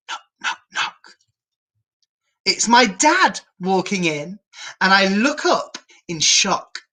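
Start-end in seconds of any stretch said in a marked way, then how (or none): 0.1-1.2 soft whispered knock knock. A narrator's reading. Narrator voicing a soft knock at the door, whispered. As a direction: tap it out gently.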